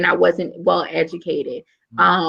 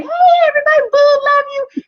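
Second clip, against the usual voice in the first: put-on much higher, louder silly kid voice; mocking the kids; 5 dB louder, faster than usual. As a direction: poke fun at the careless students.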